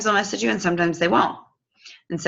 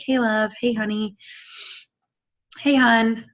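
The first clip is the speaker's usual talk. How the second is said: sweet greetings; 5 semitones higher than usual. Shown as a demonstration. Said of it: "That's, that's just what I sound like".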